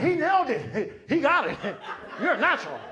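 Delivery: high, loud mock amazement; hammed-up delighted cheering; thrilled praise. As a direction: rave like a bowled-over producer. Producers cheer the bad take.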